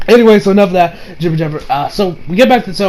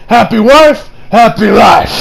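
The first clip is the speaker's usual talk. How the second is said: loud saying; 3 semitones higher, 4 dB louder, slower than usual. Real, not acted. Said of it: "I always say".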